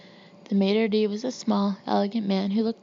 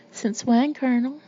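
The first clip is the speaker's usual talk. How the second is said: a high, loud heckle over the room; high teasing shout over the noise; 5 semitones higher, 4 dB louder than usual. Acted. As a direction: call it out louder over the laughter. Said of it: "shouted over the laughter".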